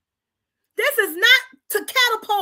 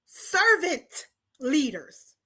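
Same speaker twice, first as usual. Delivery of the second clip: servant said slowly and drawn out, with weight; emphasis on servant; 2 semitones lower, 4 dB quieter, much slower than usual. Shown as a demonstration. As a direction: lean hard into servant, slowly. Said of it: "Emphasis on servant".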